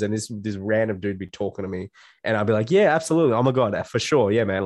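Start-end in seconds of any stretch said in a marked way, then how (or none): 2.7-4.6 overly nice agreeing. Retold or imitated. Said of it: "I'd be super nice".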